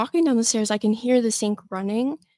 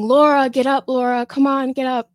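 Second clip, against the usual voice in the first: a half-real yell of her name, a little higher and louder; retold yelling; 3 semitones higher, 5 dB louder than usual. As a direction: call her name urgently, partway to a shout. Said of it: "he's yelling her name".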